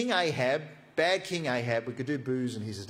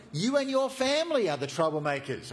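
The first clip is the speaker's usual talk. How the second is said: louder, higher retort; hitting back; 5 semitones higher, 3 dB louder than usual. Acted. Elijah turns the accusation on the king, louder and higher. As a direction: throw the insult right back at him.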